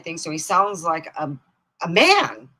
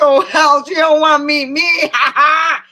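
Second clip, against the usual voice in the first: mock laughing scoff; 10 semitones higher, 12 dB louder than usual. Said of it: "I said".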